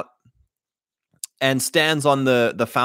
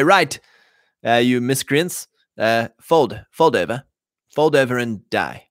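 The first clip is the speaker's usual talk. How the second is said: British officer voice. Retold or imitated. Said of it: "my British officer voice".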